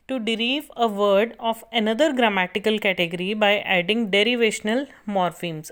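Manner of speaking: slow, deliberate dictation for note-taking. Acted. Teacher dictating a definition to students, slow and measured. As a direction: spell out each word so students can copy.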